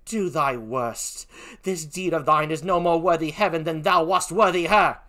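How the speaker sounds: put-on defiant British accent, slow opening; Emilia. Gentlewoman dares the killer, defiant in a British accent. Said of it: "please forgive my poor British accent".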